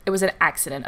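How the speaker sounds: dismissive and flat-ending, "an" falling; with attitude. Retold or imitated. Friend brushing off the customer, curt falling attitude. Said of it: "With attitude".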